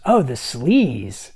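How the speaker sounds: drawn-out, mocking drawl. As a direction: stretch it out slowly with mock disdain. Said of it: "she's making fun of him".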